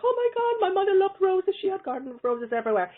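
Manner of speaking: high, gushing retold exclamation; excited recognition. Retold woman's thrilled recognition.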